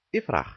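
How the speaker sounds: ifrach said distinctly with a falling end; Berber plural. Shown as a demonstration. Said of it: "devient au pluriel". (ifrach articulé)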